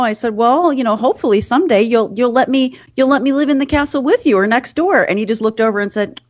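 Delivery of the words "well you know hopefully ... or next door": put-on higher, gentle talk to a child; lilting retold hopefulness; retold sweet coaxing. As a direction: hopefully coax a little one, pitched up. Retelling own wistful words to child.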